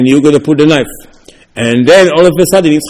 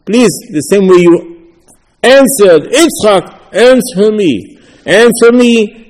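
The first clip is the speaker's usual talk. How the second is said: slow, higher, begging "answer me"; pleading prayer; 6 semitones higher, much slower than usual. Acted. Worshipper begs HaKadosh Baruch Hu to answer, slow higher pleading. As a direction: beg from the heart, rising higher.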